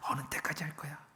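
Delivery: soft, insinuating enemy whisper; hushed tempting whisper; whisper in the ear. Acted. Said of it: "그 귀에 속삭이는 그 말".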